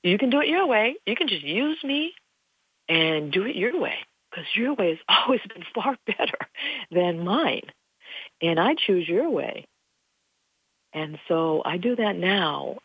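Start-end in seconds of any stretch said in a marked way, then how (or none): 0.0-9.7 raised, pleading prayer to heaven; retold prayer. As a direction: pray it lightly, asking to be spoiled. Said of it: "after I said".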